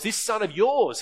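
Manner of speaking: contemptuous. Acted. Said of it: "He's full of contempt".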